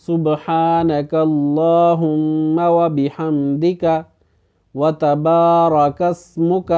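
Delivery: slow chanted Arabic, short vowels kept short; correct recitation. Shown as a demonstration. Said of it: "تو اب اس کو کیا پڑھیں گے؟".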